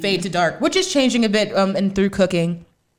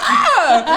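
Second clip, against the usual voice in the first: mock yell; 9 semitones higher, 6 dB louder than usual. Imitating a yell in the fight.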